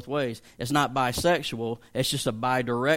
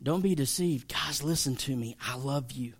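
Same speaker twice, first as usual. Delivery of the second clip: warning first, then softer as the love comes at the end; gentle loving afterthought; 3 dB quieter than usual. Shown as a demonstration. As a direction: let the affection arrive quietly after the warning. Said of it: "He said".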